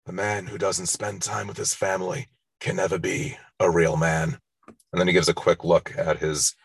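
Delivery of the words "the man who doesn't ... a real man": half-hearted mock mafia don; bad Brando impression. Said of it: "sorry in advance for this bad impersonation".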